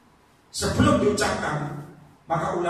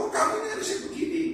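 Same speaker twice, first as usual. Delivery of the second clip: nagging friend; 13 semitones higher, 3 dB quieter, faster than usual. Retold or imitated. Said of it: "Meskipun sama teman".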